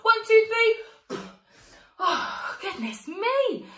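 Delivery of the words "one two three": slow loud count. Real, not acted.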